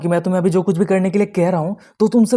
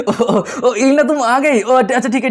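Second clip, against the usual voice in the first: higher, stuttering in acted surprise; flustered stammer; 5 semitones higher, slower than usual. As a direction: stumble over the opening as if caught out. Flustered Buchen greets unexpected arrival. (हकबकाकर अटकते हुए)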